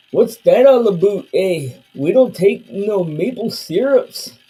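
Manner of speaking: loud hammed-up Canadian accent with a pushed "eh?"; mocking Canadian accent, punching each "eh". Streamer mocks Canadians in chat, loud hammed-up Canadian accent.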